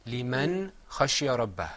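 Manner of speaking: لمن خشي ربه recited clearly, phrase by phrase; model recitation. Shown as a demonstration. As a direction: lead the class through لمن خشي ربه. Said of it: "Say that with me all together".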